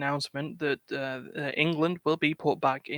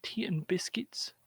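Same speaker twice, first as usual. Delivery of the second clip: whisper; 3 semitones higher, 9 dB quieter than usual. Acted. Teasing about British tea.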